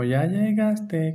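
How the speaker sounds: slow, drawn-out, cuddly Matehuala greeting; cuddly welcome. Retold or imitated. Imitating Matehuala folks greeting you, slow and cuddly. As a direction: draw it out like a fond hug. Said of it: "como muy apapachado".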